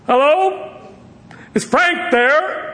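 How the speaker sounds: high, drawn-out cheery query rising at the end; polite phone caller. Retold or imitated. Dad phones a random number, high innocent caller voice. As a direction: sing out a questioning phone call, pitched high. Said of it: "he said to the man who answered".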